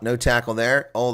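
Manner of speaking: ordinary delivery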